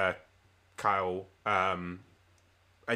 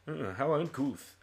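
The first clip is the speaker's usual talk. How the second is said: slow, softer, put-on official's disapproval; offended officer; 3 semitones higher, 5 dB quieter, slower than usual. Officer to the man who ran into him, slow haughty disapproval. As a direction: tut at the clumsy stranger. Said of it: "busts himself up and goes".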